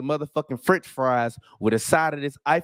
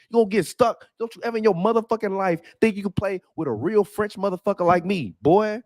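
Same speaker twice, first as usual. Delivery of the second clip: raised, heated trash talk in a put-on Frenchman voice; Rudy Gobert voice; 5 semitones higher than usual. Commentator voicing Rudy Gobert threatening his critics, heated and raised. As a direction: puff up and threaten like a furious French center. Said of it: "I had to translate for Rudy Gobert".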